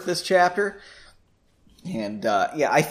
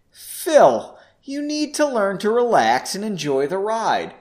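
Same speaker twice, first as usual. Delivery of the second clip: cool; 4 semitones higher than usual. Acted. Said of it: "Henry said coolly".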